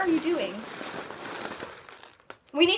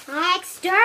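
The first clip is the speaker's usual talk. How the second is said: Dalek voice; 2 semitones higher, 5 dB louder than usual. Acted. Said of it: "Watch this".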